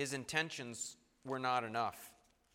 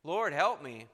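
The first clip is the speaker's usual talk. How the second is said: louder and slow, pleading; Peter's broken plea; 6 semitones higher, 7 dB louder, slower than usual. Acted. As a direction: let it dawn on him, then beg. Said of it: "draw him up short to say".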